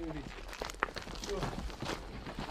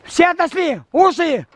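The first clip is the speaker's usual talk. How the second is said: shouted command; 3 semitones higher, 4 dB louder than usual. Real, not acted. Clearing crew before firing.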